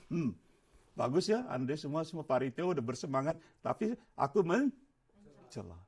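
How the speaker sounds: quiet, sneering mock remark; scornful aside. Church member quietly mocking the eager committee. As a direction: murmur it with quiet contempt, slowing at the end.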